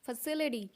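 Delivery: "फैसिलिटी" said fuh-SIL-i-dee; American t-as-d. Shown as a demonstration. Teacher demonstrates American sound, "फैसिलिटी" as fuh-SIL-i-dee. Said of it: "जो टी का sound है वो ड बोला जाता है".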